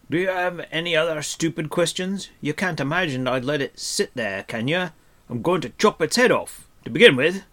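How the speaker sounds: loud, high, exasperated scolding; irritated dwarf. A narrator's reading. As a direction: scold a fool in a gruff little temper.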